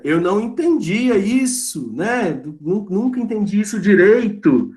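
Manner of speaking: a hint of a lost student owning up; lightly voiced confused student. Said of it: "Aí você pode perguntar".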